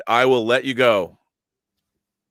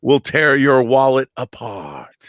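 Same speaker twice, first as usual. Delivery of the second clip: Cenobite voice; slower than usual. Acted. Continues Cenobite impression.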